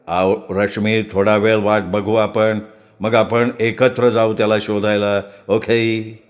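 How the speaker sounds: steady her with a calm, low voice; lightly acted consoling tone; gently reassuring. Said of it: "धीर देत म्हणाला".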